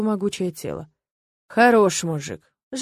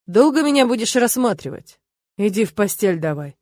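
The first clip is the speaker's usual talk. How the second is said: displeased; 4 dB louder than usual. Acted. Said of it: "Слышу его недовольный голос".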